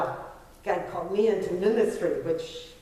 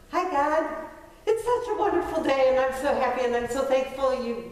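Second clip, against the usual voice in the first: falsely cheerful prayer; 4 semitones higher than usual. Retold or imitated. Churchgoer hiding troubles behind a chirpy prayer, falsely cheerful. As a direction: put on a sunny face for God.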